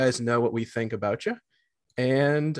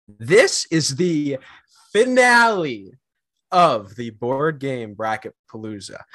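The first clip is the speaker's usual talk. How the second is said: hype announcement; 4 dB louder than usual. Real, not acted. Hyping the finale announcement.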